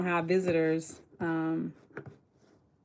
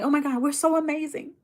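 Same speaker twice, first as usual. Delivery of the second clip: pumped up; 6 semitones higher, faster than usual. Retold or imitated. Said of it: "I get so pumped up".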